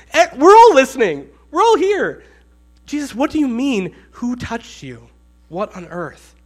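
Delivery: high, loud incredulous outburst; exasperated protest. Acted. A roomful of listeners answering back, exasperated. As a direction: protest loudly, pitch leaping up. Acting the room's incredulous reply to him.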